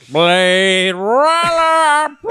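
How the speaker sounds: slow, drawn-out announcer voice; dramatic movie voice. Pretend. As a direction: stretch the title out like a trailer. Drawn-out movie-title impression.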